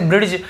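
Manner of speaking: ब्रिज said as brid-j, D heard; sounded-D pronunciation. Shown as a demonstration. Teacher showing how many people read it, ब्रिज with D. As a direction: say ब्रिज with a hard D before J. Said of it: "ऐसे भी पढ़ते होंगे".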